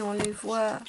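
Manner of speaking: hushed, breathy aside; whisper. Real, not acted. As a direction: whisper it to yourself, pleased.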